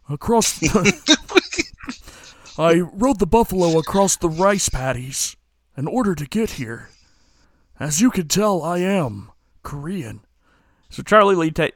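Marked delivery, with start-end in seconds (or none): 0.1-10.2 hammed-up stereotyped Native American accent, pitched higher; Tonto. Asian actor auditioning with a mock Native American accent, exaggerated. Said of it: "do your best Tonto impersonation".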